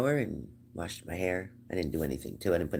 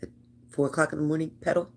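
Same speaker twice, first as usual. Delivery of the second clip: higher, louder disbelief; incredulous; 8 semitones higher, 3 dB louder, faster than usual. Retold or imitated. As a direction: pitch up in disbelief. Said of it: "And I'm like".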